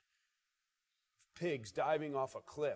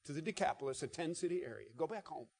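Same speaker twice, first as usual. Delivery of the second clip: soft, fading tender instruction; Jesus quietly sending the man home; gentle Jesus; 4 dB quieter than usual. Retold or imitated. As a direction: send him home kindly. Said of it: "He says".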